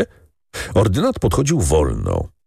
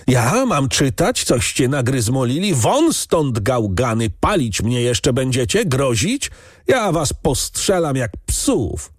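beside himself; 7 semitones higher than usual. A narrator's reading. Count refuses the farmhands' paper and threatens them, beside himself. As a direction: rage at them in a high voice, stretching the threats. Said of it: "Trestka wychodził z siebie".

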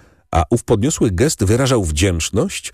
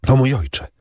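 calling out; 7 semitones higher than usual. A narrator's reading. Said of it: "zawołała dziewczyna".

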